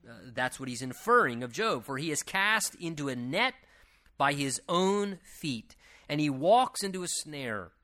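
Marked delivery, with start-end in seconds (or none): 1.8-7.7 emphatic, measured Bible reading; declaimed scripture. Acted. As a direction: read the verse out phrase by phrase. Reads scripture aloud to the congregation.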